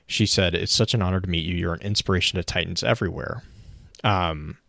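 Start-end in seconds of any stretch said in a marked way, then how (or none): 0.5-3.4 quick, rushed nervous gushing, imitated; mildly nervous, hurried retelling; nervous admirer. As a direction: rattle it off like a nervous fan. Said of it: "really nervous".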